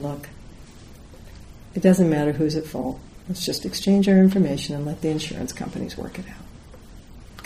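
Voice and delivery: composed, reasonable, unhurried voice; very calm. Retold or imitated. Woman proposing insurance sort it out, very calmly. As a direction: calmly talk the other person down. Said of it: "just very calmly saying".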